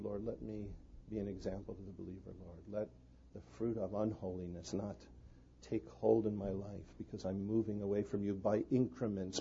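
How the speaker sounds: soft, hushed prayer to the Lord; quietly quoted prayer. Retold or imitated. Pastor recalling his private prayer, soft and hushed. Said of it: "am looking to the Lord".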